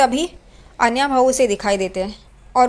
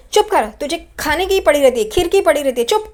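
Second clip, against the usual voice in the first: mild mock yell, a bit louder; scolding her son for nagging about kheer, mock yell; retold yell; 4 semitones higher, 3 dB louder than usual. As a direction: snap it like a fed-up mother, half-acted. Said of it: "Renuka इतनी चिल्लाती है ज़ोर से".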